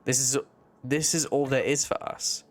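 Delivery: a hint of an uncanny echo voice; eerie character voice. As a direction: read it like a faded memory speaking. Akazet calming the thought form.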